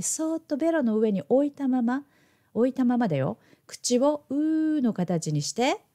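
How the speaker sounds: put-on a touch of a teacher coaxing small children; lightly sing-song, gently leading a child step by step; talking to kids. Shown as a demonstration. Teacher guiding children through the candy trick, lightly sing-song. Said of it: "子供たちに教えるときにいつも使っている言い方".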